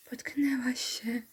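whispered sceptical repeat; mock whisper. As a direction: hiss the echo in disbelief. Sarcastic whispered echo.

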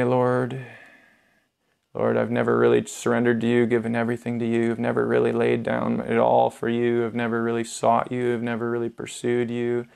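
subdued, sincere confession to God; prayer of repentance. Acted.

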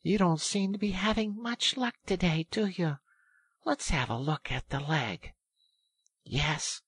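high, sympathetic character voice; kindly. A narrator's reading. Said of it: "said the rat kindly".

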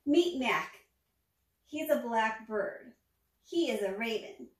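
steady read-aloud storytelling; storybook narration. A narrator's reading. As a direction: read it to the kids, clearly and gently. Reading picture book aloud.

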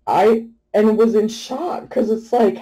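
ordinary delivery

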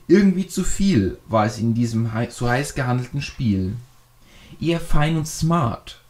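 measured, rhymed verse reading; poem recitation. Acted. YouTuber reciting his rhymed gaming year in review to subscribers, poem recitation.

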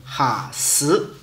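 “哈死”的“哈”重读，低沉，念第二声; 把“哈”念得重一点、低一点，第二声; 温州话重音发音. Shown as a demonstration. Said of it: "声音要重音一点，低沉一点". (“哈死”，哈字重读低沉，念第二声)

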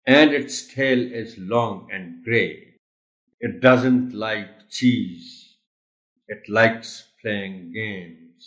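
put-on slow, sing-song poem reading for children; poem recital. Shown as a demonstration. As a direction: read it out clearly like a nursery rhyme. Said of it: "I'm going to read it for you". (بچوں کے لیے نظم سنانے کا انداز)

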